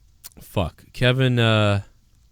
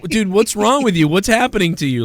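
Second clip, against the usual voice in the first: mock concern; 6 semitones higher than usual. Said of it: "And they're like".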